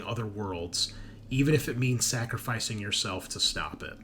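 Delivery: deliberate second-person story reading with pauses; dramatic read-aloud. Acted. Game master revealing a spy's secret agenda, dramatic read-aloud. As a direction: narrate a character briefing.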